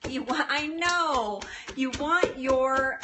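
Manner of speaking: ordinary talk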